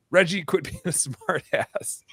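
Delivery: put-on high child's scolding broken by a laugh; nine-year-old sister. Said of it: "my nine-year-old goes".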